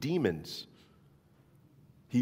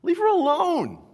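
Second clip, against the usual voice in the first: high, loud defense; firm command; 6 dB louder than usual. A narrator's reading. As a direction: stop them firmly, protective. Jesus voiced in scripture reading.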